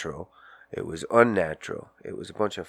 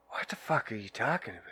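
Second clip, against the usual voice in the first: sleepy mumble; 10 dB quieter, faster than usual. Retold or imitated. Just woken from sleep.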